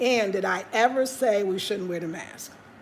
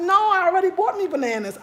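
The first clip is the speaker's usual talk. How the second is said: higher, loud, laughing through the refusal; laughing brush-off; 8 semitones higher, 4 dB louder than usual. Retold or imitated. Telling the auntie no again while laughing. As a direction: refuse her while cracking up.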